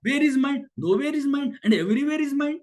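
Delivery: high, slow rhetorical proclamation; proclaiming. Real, not acted. Teacher proclaiming to students where mind is, slow and high. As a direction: declare it slowly, up high.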